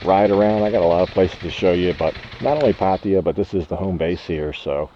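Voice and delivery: muffled voice through a helmet mic; talking inside a motorbike helmet. Real, not acted. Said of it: "how this test works with my helmet, uh, voice test".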